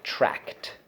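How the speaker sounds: tract said alone, almost whispered; syllable drill. Shown as a demonstration. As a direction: breathe tract as its own beat. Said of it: "Second syllable".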